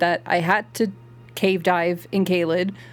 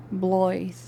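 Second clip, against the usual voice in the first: mock Irish Blythe. Shown as a demonstration. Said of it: "I think Irish is a bit more like".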